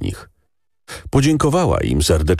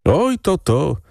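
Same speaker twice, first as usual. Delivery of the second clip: much higher, eager agreement; agreeing villagers; 9 semitones higher than usual. A narrator's reading. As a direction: chime in together. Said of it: "odezwało się parę głosów".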